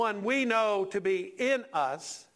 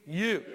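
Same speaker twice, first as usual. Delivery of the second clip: drawn-out "you" standing alone; accusing stress on YOU. Shown as a demonstration. Preacher leading the congregation in "you", accusing stress. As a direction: lean on "you" as a model to repeat. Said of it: "say that with me".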